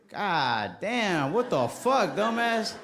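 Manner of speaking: hammed-up customer yelling; mock angry customer. Customer cursing at the kid barber, mock angry.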